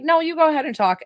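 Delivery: a hint of a polite New Yorker; light New York accent. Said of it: "Was I doing the accent?".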